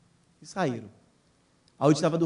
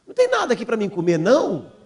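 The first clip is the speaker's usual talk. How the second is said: quick, higher-pitched complaint; lightly voiced daughter asking for food; imitated hungry child; 4 semitones higher than usual.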